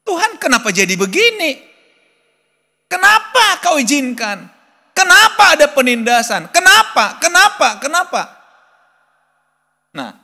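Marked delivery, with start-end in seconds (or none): 0.0-8.2 anguished plea to God. Retold or imitated. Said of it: "kita berkata".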